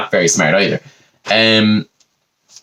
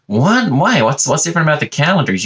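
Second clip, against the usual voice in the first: puzzled Americans; 5 semitones higher than usual. Retold or imitated. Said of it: "they're just like".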